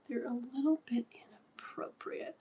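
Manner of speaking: whispered mock child; imitating son. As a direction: voice a prim little boy. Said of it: "He's like".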